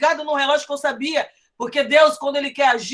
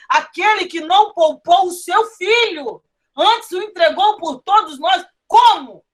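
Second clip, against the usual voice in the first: fervent preaching; 3 semitones higher than usual. Acted. Pastor exhorting the brothers to praise through pain, raised and fervent. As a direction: preach it, building to the climax.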